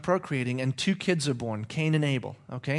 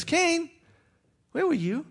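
God calling; 12 semitones higher than usual. Acted. God questioning Cain.

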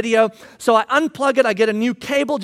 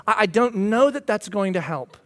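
gentle; 3 semitones lower, 4 dB quieter than usual. Retold or imitated. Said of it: "in a very gentle and loving way".

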